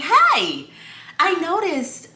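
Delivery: polite with a smile. Retold or imitated. Customer to store worker following her, politely smiling. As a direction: flag someone down politely, voice lifted. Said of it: "smile on my face".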